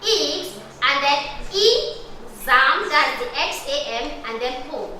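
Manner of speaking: "exam" drawn out slowly, then "po" cut off, a wrong split; wrong syllable split. Shown as a demonstration. Teacher showing pupils the wrong way to split. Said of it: "That's very wrong".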